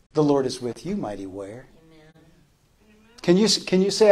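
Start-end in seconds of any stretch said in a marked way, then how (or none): 0.1-1.7 soft and low, dropping away at the end; hushed voice of God. Acted. Preacher voicing God to the congregation, hushed. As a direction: speak it gently as God's promise. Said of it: "God would say to you today".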